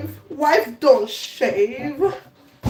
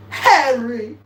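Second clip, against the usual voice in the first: normal talking voice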